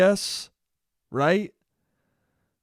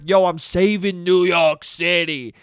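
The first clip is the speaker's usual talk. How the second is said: Cuomo impression. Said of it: "Cuomo being like".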